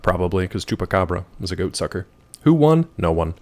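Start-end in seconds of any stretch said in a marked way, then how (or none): 2.4-2.9 higher, louder who won; mock insistent question. Streamer mock-demanding who won the fight, loud. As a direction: demand it theatrically.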